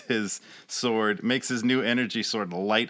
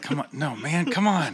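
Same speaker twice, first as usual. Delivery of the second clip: character call; 7 semitones higher than usual. Acted. Character calling out in play.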